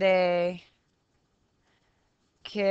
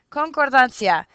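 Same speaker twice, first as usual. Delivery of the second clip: mock exasperated; 4 semitones higher, 8 dB louder than usual. Shown as a demonstration. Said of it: "Talk about an elementary structure".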